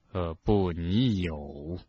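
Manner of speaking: low, calm contradiction; quietly insist, unruffled. A narrator's reading. Headmaster contradicts the raging boy, low and calm. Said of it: "神情更加平静了".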